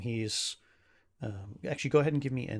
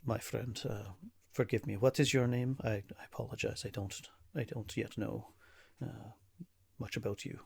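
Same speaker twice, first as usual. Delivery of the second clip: lightly voiced formal apology; halting, polite, a hint of weariness; courteous troubled nobleman. Ismark asks a stranger's name, lightly acted apologetic manner.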